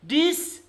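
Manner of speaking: "distribute" broken into DIS, TRI, BUTE; syllable-by-syllable demo. Shown as a demonstration. Teacher showing class the word, "distribute" in three separated syllables. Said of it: "how we have to pronounce this word".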